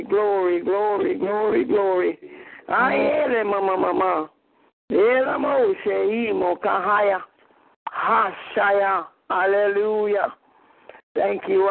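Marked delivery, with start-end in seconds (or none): 2.7-9.1 speaking in tongues. Real, not acted. Prayer in tongues.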